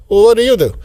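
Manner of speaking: loud, pointed question from the new boss. Acted.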